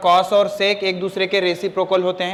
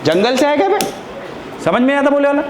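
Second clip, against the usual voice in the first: real angry outburst; 5 semitones higher than usual. Real, not acted. Teacher to pupil ignoring twenty minutes of explaining, angry berating. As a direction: lose patience with the pupil.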